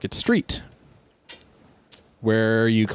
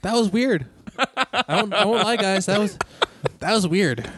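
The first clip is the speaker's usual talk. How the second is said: laughing; 10 semitones higher than usual. Real, not acted. Laughing after pronunciation game.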